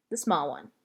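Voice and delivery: Gloria Dump's voice. Acted. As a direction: voice her low and unhurried. Gloria Dump voiced in story.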